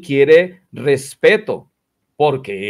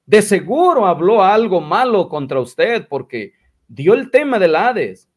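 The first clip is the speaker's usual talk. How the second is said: higher-pitched mock retelling of a gossip; lightly voiced tale-bearer, pitched up; Vilchis; 4 semitones higher than usual. Gossip telling brother Israel about Kazuki, lightly imitated in a higher voice. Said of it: "le dijo el Vilchis".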